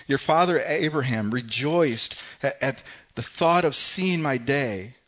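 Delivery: Jesus answering the crowd with loud conviction; firm declaration. Acted. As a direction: stand your ground and declare it.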